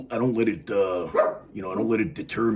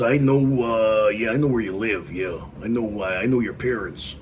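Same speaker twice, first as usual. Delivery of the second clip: put-on grumpy old man; 3 dB louder than usual. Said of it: "be like the old grumpy guy and yell out the window".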